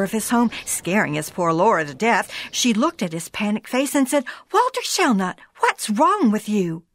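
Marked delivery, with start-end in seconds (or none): 4.5-6.8 alarmed wife. Acted. Wife alarmed at panicked husband.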